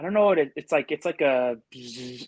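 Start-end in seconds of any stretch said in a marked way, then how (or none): 1.7-2.3 short buzzing bug noise; imitated buzz. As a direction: imitate a buzzing sound with the mouth. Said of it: "it's not a buzz".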